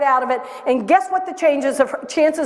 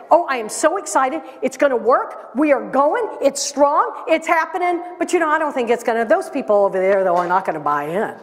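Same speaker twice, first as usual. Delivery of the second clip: excited then doubtful. Shown as a demonstration. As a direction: talk yourself up, then deflate it. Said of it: "Forking is when I say".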